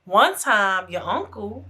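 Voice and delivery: slow, dead-serious imitation of an aunt; slow it down, lightly mock-solemn. Aunt beginning a story about uncle, imitated dead serious. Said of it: "like she dead serious".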